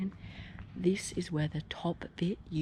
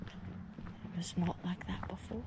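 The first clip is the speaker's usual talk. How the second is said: whispering; 2 semitones higher, 7 dB quieter, slower than usual. Real, not acted. Nervous night exploring.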